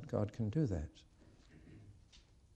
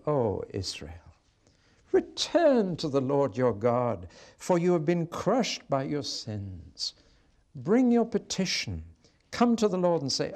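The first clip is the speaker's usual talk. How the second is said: earnest appeal; 4 semitones higher, 4 dB louder than usual. Acted. God making a final appeal to Israel, earnest.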